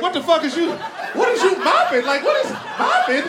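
can't believe what he sees; incredulous. Retold or imitated. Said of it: "I was like".

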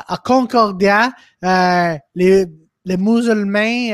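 slow, loud French quote. Retold or imitated. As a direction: read out the French headline slowly. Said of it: "And he goes".

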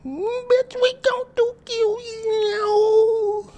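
high, loud shrieking threats; screaming rage. Acted. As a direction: scream it like you've lost it. Church fight erupts, screaming threats.

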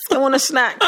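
laughing whiny snack request; lightly voiced whiny Precious. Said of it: "You sound like Precious".

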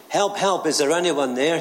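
high, urgent call for help; shouting for help. Acted. Jack clinging to a branch, calling upward, high and urgent. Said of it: "he shouted".

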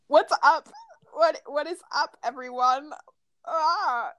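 high, hammed-up mock British greeting; a rapper. Imitating a meme about talking British, squeaky mock-British. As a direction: put on a silly high British accent. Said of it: "the meme where he's like".

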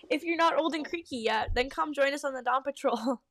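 joking retort. Acted. Maplefur teasing old Pineclaw, joking retort. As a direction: toss it back playfully. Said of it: "Maplefur retorted jokingly".

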